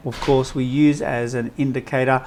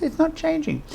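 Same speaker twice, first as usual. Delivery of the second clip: much higher, mock-panicked whine; high-pitched panic. Students panicking over the lime water, high-pitched mock panic. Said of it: "in that high-pitched voice".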